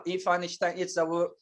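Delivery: ordinary talk, nothing marked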